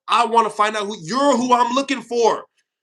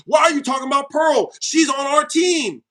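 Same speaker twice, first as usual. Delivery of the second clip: mock commenter; 4 semitones higher than usual.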